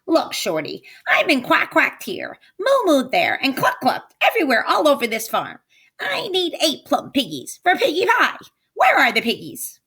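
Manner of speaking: high, fast, fed-up witch; exasperated witch. Acted. Witch complaining to Old MacDonald about the farm, high. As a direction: complain through the whole list.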